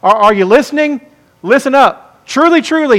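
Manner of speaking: insistent "Listen up" building into a high "Truly, truly"; emphatic repetition. Acted. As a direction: call for attention, then hit both words of "Truly, truly" high. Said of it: "He's repeating it for emphasis".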